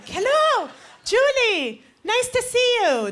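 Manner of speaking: high, slow, gushing greeting; excited dad. Retold or imitated. Dad gushing over a girl calling his son. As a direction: sweeten every word for the girl. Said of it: "he would get really excited".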